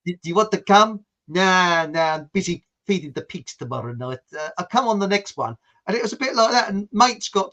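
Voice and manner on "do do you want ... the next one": a bit of mock South African; South African accent. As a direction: chat back in a light South African accent. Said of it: "do you like my bit of South African".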